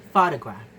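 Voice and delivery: "photograph" with the stress on PHO; first-syllable stress. Shown as a demonstration. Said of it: "the best stress".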